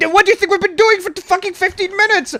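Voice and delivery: outraged retold yell at the teammate; exasperated yell. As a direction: blast him in disbelief. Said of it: "And it's like".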